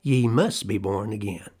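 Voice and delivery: "must" picked out, then a falling close; emphatic. Retold or imitated. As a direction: stress on "must" in "Ye must be born again". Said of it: "There is only an emphatic".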